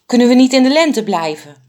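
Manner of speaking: high, loud, worried question from the fat bird; unsure. A narrator's reading. Fat bird pleads with the others to stay in spring, high and anxious. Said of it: "vroeg de dikste vogel onzeker".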